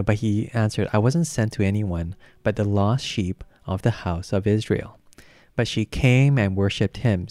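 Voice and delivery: firm, projected Bible reading; scripture reading. A narrator's reading. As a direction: read the passage out with emphasis to a congregation.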